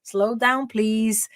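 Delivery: slow, drawn-out mock plea; imitated plea. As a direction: imitate a listener begging her to slow down. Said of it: "and then people say". (imitando um pedido arrastado pra ir devagar)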